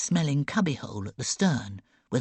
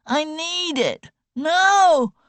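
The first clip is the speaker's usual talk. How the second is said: much higher, loud panicked cry; desperate howl; 8 dB louder, much slower than usual. A narrator's reading. Sick boy howls for the bowl, high loud panic. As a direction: cry out as if she took your lifeline. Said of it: "Ivor howled".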